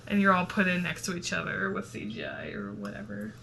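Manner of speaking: talking mid-yawn. Real, not acted. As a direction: yawn through the words. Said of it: "did you get that yawn".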